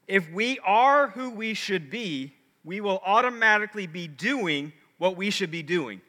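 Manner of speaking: slow, deliberate reading of a riddle; measured, careful recitation; read slowly. Shown as a demonstration. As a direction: spell out the riddle phrase by phrase. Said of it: "read it slowly 'cause it's a riddle".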